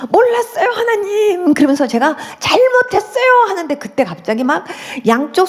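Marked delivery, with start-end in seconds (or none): 0.1-1.5 re-enacted begging, pitched high; childlike pleading. New believer retells begging God, high childlike plea. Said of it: "애기가 엄마 아빠한테 막 이렇게 비는 것처럼". 2.4-3.4 high, slow, drawn-out apology; childlike begging. Retold or imitated. New believer confesses to God, begging in a high voice. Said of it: "애기가 엄마 아빠한테 막 이렇게 비는 것처럼".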